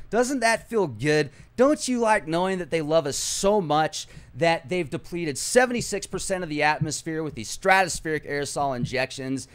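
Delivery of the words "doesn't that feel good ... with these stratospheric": sarcastic. Real, not acted. Mocking the listeners' suppression.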